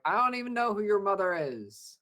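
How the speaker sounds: high, loud incredulous put-down; mock exasperated retort. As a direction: squeak out a baffled comeback. Himrath's retort.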